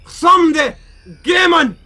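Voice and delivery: high, halting faux-German proclamation; mock German commentator. Commentator announcing victory in this game, high mock-German voice. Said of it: "I haven't spoken German".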